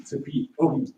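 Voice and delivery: muffled through a face mask. Real, not acted. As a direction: speak through a cloth mask. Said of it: "avec le masque, c'est pas, c'est pas évident".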